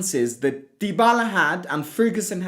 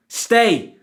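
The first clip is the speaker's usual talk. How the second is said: exasperated; 6 semitones higher, 5 dB louder than usual. Real, not acted. Angry rant telling player to stay.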